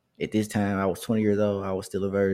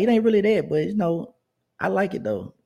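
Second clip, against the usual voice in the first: woman's voice, pitched much higher, coy; imitating the older woman; 11 semitones higher, 4 dB louder than usual. Older woman coworker says she likes his afro, high coy voice. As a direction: go way up into her voice, sweet and teasing.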